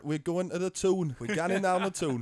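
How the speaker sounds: loud, high Geordie shout; hammed-up Geordie, bellowing about the Toon; Geordie accent. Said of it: "I might try and do this whole thing in a Geordie accent".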